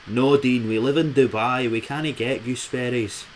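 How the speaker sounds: mum in a really bad Scottish accent; a weak stab at a Scottish mother; badly faked Scottish mum.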